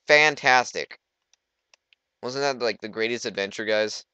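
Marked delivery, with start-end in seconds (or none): 0.1-1.0 loud, high, hammed-up exclamation; mock amazement. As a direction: proclaim it big, as if truly wowed. Mock awe at the cave.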